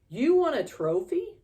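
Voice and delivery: high, loud disbelieving question; can't believe it; astonished. A narrator's reading. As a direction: stepsisters stunned by Ellie's trophy. Stepsisters shocked at the news.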